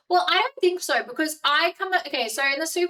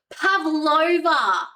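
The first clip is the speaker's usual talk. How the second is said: sudden idea; 5 semitones higher, 7 dB louder, much slower than usual. Real, not acted. Suddenly remembers a dish.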